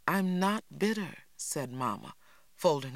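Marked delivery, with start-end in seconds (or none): 0.1-1.1 defensive denial. A narrator's reading. Mama denies being bitter.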